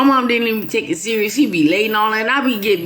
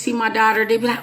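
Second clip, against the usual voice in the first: usual speaking voice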